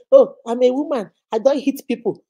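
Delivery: loud, smug and self-satisfied; mock the excuse loudly; an abuser loudly excusing herself; mock self-righteous. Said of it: "you might say".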